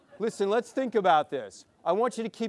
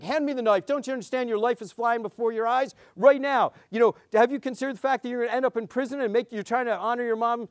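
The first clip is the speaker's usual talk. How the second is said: preachy lecture; 5 semitones higher, faster than usual. Retold or imitated. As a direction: hammer her with a nagging adult lecture. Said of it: "this is what the lecture sounds like".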